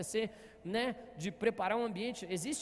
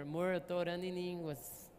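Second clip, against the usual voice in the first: drowsy insistence; 6 semitones lower, 4 dB quieter, slower than usual. Retold or imitated. Retold couple's late-night argument.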